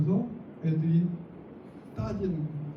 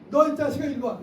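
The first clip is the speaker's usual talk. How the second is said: put-on gruff shout of an old-school teacher; old-school teacher yell; 5 semitones higher, 4 dB louder than usual. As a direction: bark it like a strict teacher of the past. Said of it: "심지어 이런단 말이에요". (옛날 선생님처럼 버럭 부르기)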